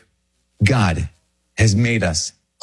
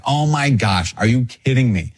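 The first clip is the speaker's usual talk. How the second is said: cantankerous. Retold or imitated. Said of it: "maybe cantankerous".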